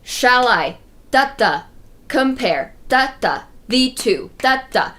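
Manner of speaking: shall I, compare, thee to each followed by da-da on the beat; scanning the verse foot by foot, da-DA; scanning the iambs. Shown as a demonstration. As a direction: chop the line into feet, echoing each as da-da. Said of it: "We can hear that in the".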